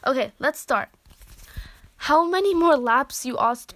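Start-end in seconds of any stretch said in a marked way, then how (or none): 2.0-3.3 out of breath asking; panting. Acted. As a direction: gasp the words between breaths. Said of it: "panting with your hands on your knees".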